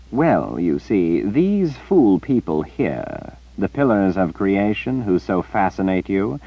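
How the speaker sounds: slow, mocking villain; sly sorcerer. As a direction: savor the revelation slyly. Nicholas sly explanation.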